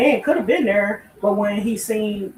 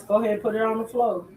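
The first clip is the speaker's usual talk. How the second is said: plummy sporty arrogance. Pretend. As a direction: toss it off like a snooty polo player. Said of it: "In my polo voice".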